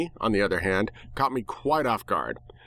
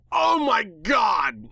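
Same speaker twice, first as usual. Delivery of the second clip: high, drawn-out startled yell; 11 semitones higher, much slower than usual. Acted. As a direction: shout it in sudden fright. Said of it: "I yelled".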